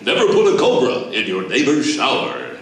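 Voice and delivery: lightly voiced booming announcer; a hint of an old-school radio announcer; mock announcer booth read; Gary Owens announcer. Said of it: "in the booth with his hand on his ear going".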